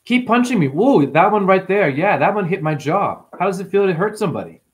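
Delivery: high, playful goading of an attacker; demonstrated high-pitched comeback to a bully; mock taunt. Shown as a demonstration. Acts out taking a troll's blows.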